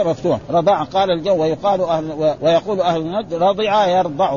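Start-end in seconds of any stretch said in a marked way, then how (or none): 3.3-4.4 رضع يرضع said "rada'a yardi'u"; a after dad in رضع, i in يرضع; fatha then kasra. Shown as a demonstration. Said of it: "بفتح الضاد في الماضي وكسرها في المضارع". (رضع بفتح الضاد، يرضع بكسرها)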